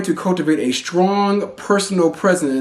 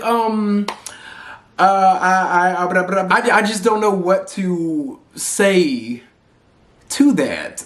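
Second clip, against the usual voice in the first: frozen stammer; 3 semitones higher than usual. Retold or imitated. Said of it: "I would always just freeze".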